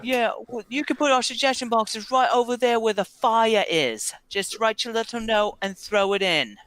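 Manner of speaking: high-pitched barkeep giving directions; barkeeper character. Acted. Plays the bar's keeper.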